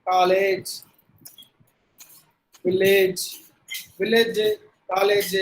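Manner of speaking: College and Village ending in "layj"; wrongly long vowel in College, Village; long second vowel. Shown as a demonstration. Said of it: "இங்க வந்து நம்ம நெடில் sound".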